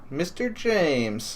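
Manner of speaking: slow, soft sinister greeting; slow menacing whisper. Acted. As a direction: draw the name out like a threat. Villain greets at the door.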